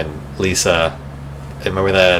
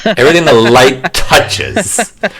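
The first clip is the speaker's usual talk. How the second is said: mock Mufasa; 5 semitones higher, 5 dB louder, slower than usual. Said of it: "mocking the scene".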